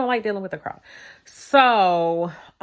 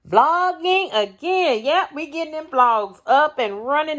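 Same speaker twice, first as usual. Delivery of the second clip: excited; 9 semitones higher, 3 dB louder than usual. Real, not acted. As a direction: stretch it out happily, high pitched. Cheerful vlog return.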